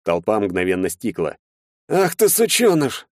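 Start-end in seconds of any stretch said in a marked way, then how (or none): 1.9-3.1 high, slow venomous hiss; hissed insult. A narrator's reading. Rival hisses at the boy who knocked him down. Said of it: "зашипел противник".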